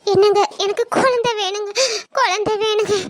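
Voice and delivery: put-on sobbing beg for a child; wife sobbing to husband for a baby; crying plea. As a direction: cry it out, begging. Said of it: "அழுதுகிட்டே தான் இருப்பா".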